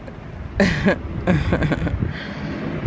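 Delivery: breathy, voiceless chuckle; wordless laughter at yourself. Real, not acted. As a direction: laugh at your own blunder. Laughs at taking wrong bus.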